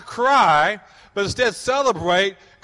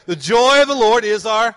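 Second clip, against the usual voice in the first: congregation call-back; 4 semitones higher, 6 dB louder than usual. Real, not acted. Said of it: "Let's say it together".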